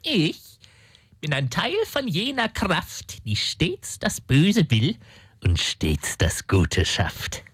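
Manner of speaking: langsam, am Ende tief und dunkel; feierliches Zitat. Acted. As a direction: zitier es wie ein unheimliches Orakel. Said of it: "noch mal auf Deutsch, bitte". (Dämon zitiert Mephisto: langsam und dunkel feierlich)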